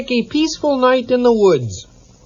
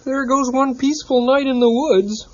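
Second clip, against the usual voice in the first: sighing; 4 semitones higher than usual. Acted. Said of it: "sighed Kermit".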